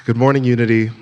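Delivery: high, loud hello to a crowd; big cheery greeting. Real, not acted. Speaker greeting the church, big cheery greeting. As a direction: call out a lifted morning welcome.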